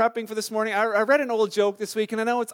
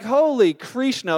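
louder, drawn-out mock oath; mock swearing; 3 semitones higher, 5 dB louder, slower than usual. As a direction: stretch it slowly into a pretend curse. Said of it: "use that name as a swear word".

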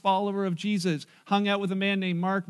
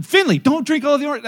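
imitating an older child, higher and louder; bossy sibling; 7 semitones higher, 7 dB louder than usual. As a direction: chime in with a loud mock telling-off. Older sibling joins the scolding.

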